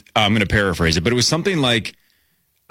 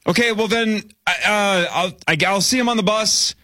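put-on higher, halting flustered kid; awkward kid voice; 10 semitones higher, slower than usual. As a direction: stammer out an awkward goodbye. Awkward kid after rejection.

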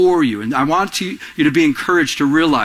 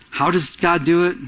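ordinary talk

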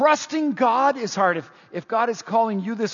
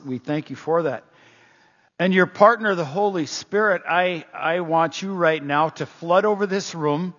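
prayer; 3 semitones lower than usual. Acted. Pastor opens with a prayer.

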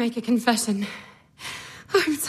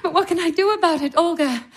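half-laughing sigh; 3 semitones higher than usual. Acted. Masha laughing and sighing.

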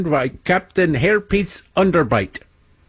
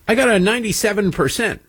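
pretend student; 7 semitones higher, faster than usual. Pretend student boasting to math teacher.

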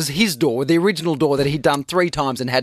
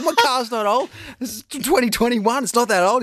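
much higher, giggling defence; laughing protest; 8 semitones higher than usual. Retold or imitated. Dad arguing with son about his car, laughing. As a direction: defend the old car while cracking up.

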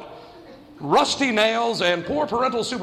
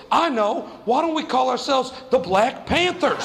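put-on higher-pitched, eager kid suggestion; April; 5 semitones higher than usual. Girl naming the kids' new club, lightly imitated eagerness. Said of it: "this girl named April was like".

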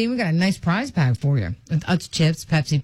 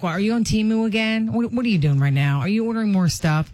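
mock scolding. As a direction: playfully scold him for shopping again. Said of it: "But now I'm scolding him".

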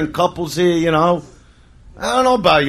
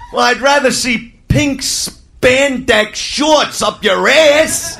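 blunt answer; 3 semitones higher, much slower than usual. Retold or imitated. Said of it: "it's just so hard to tell 'em".

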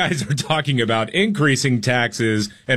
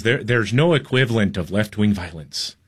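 badly attempted Irish accent; terrible Irish accent. Radio host mimicking an Irish reporter, in a poor Irish accent. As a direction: have a feeble go at an Irish accent. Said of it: "That's a terrible accent".

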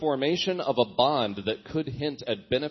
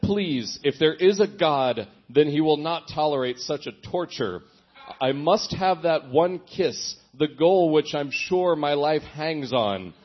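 mock melodramatic. Reading teenage diary plea aloud, mock melodramatic. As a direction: overplay the desperate lover begging God. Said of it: "this gets melodramatic now".

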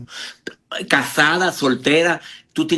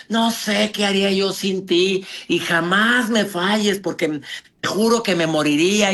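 clingy devotion; 2 semitones higher than usual. Retold or imitated. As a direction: imitate someone hopelessly dependent in love. Voices clingy lover to man.

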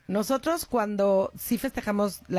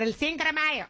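put-on American accent; 6 semitones higher than usual. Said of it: "me dijeron".

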